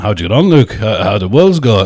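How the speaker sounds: put-on Yorkshire accent. Gym acquaintance asking Luke how Worlds went, in a Yorkshire accent. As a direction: ask it casually in a Yorkshire accent. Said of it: "put on my Yorkshire accent".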